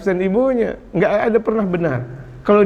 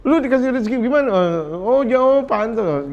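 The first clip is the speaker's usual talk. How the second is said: mock berating; 5 semitones higher than usual. Preacher imitates teacher blaming parents' livelihood, mock scolding. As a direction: sneer it as a lightly acted scold. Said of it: "Orang tuanya diomelin".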